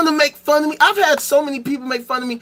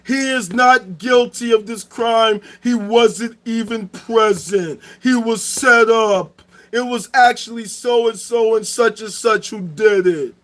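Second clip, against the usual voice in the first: a lightly put-on solemn divine voice, slow in places; a hint of a booming deity, mostly his own voice; voicing Allah. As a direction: play God confirming the truth, measured and grand. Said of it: "and Allah can say".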